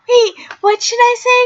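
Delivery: put-on high, airy whispered Valley Girl; breathy ditzy girl whispering for help. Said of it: "talking like a Valley Girl".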